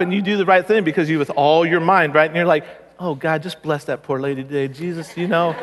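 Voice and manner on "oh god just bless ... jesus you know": mock prayer. Mock prayer for slow driver.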